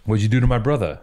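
badly faked Boston tough guy; Jeremy Renner, attempted Boston accent. Mimicking the actor's sneering brother from The Town, failed Boston accent. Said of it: "I can't do it in a Boston accent".

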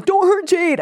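mock scream. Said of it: "and screams".

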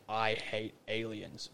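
slow, drawn-out mysterious voice; eerie disembodied voice. Retold or imitated. Retelling a voice heard in a dream, slow and eerie. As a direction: intone it slowly, word by word. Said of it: "there was this voice saying".

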